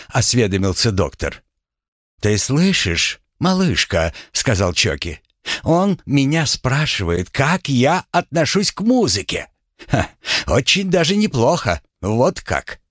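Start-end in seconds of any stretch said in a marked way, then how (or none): 2.2-12.8 high drawling Chokey voice. Acted. Chokey talks about music.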